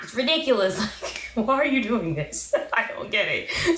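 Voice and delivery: usual speaking voice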